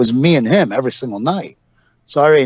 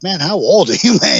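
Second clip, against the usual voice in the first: higher, amused teasing; laughing tease; 6 semitones higher than usual. Retold or imitated. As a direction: laugh through the jab.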